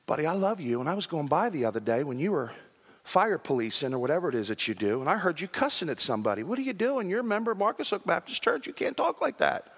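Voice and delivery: soft, caring word to a friend; gentle correction. Retold or imitated. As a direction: speak softly to a friend you care about. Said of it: "come up to Henry and say".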